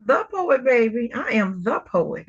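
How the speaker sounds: firm stress on "the" in "the poet"; emphatic THE. Real, not acted. Host answering her guest's question, emphatic on "the". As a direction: correct them, leaning on "the". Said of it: "the poet or a poet?".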